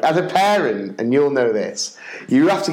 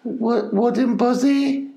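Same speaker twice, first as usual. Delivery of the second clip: put-on toddler voice; 7 semitones higher, slower than usual.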